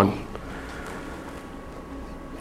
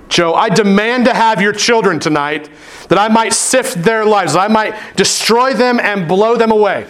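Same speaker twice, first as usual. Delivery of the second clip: lightly voiced whiny demon, a bit higher; a hint of a crybaby villain demanding; mock Satan; 7 semitones higher than usual. Pastor voicing Satan at his door for his kids, lightly mocking. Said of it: "like a little scary crybaby".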